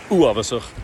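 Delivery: uavasach with a short stressed first vowel. Shown as a demonstration. Coach modelling the correct Gaelic word. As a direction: hit the ua of uavasach quickly and briefly. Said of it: "stress the first vowel".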